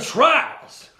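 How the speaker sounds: high squeaky clown shout; goofy cartoon title yell; silly clown.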